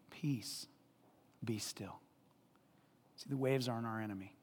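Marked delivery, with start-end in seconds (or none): 0.1-2.0 softer, whispered peace be still; hushed. Shown as a demonstration. Preacher speaks to the waves, softly whispered. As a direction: hush the waves like a sleeping child. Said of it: "we say".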